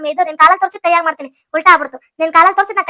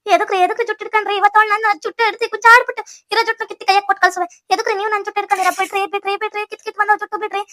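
indignant protest; 3 semitones higher than usual. Acted. Wife held by hair, threatening.

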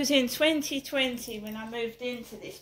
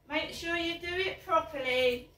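laughing; 6 semitones higher than usual. Real, not acted.

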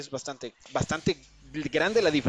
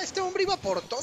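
excited. Real, not acted. Commentator amazed at a play.

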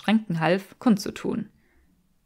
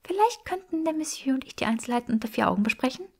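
höher und rasch, mit aufgesetztem Lächeln; gezwungen freundlich; 6 semitones higher, faster than usual. A narrator's reading. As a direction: Freundlichkeit vorspielen, die man nicht fühlt. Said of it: "ihren besten Versuch eines Lächelns". (mit aufgesetztem Lächeln, schnell und höher)

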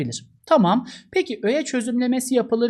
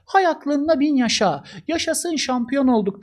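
joyful exclamation; 7 semitones higher than usual. Shown as a demonstration.

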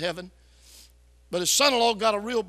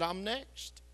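hushed; 10 dB quieter than usual. Retold or imitated. Dying old man, quoted.

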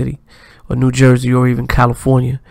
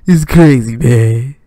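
louder, pushed impression of a rapper, a bit strained; overdone louder rapper voice; imitating a rapper; 3 dB louder than usual. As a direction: lean hard into a rapper imitation. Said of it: "I try to do his voice a little bit hard".

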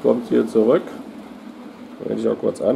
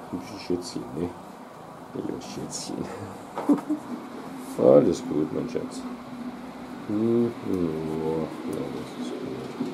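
soft whisper; 6 semitones lower, 9 dB quieter than usual. Real, not acted. Soothing the cat softly.

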